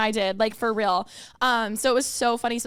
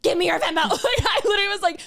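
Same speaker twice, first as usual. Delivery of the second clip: higher, louder playful insistence; mock bullying demand; 9 semitones higher, 5 dB louder than usual. To a reluctant fan, playfully bullying demand louder. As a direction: push it on her like a teasing bully. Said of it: "basically bullying her".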